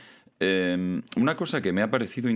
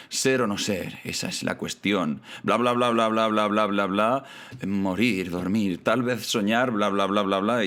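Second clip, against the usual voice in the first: singsong blur of a famous speech; mock recitation; 2 semitones higher than usual. Teacher parodies the famous monologue for viewers, mock recitation. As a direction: mimic a monologue half heard, droning through the blahs.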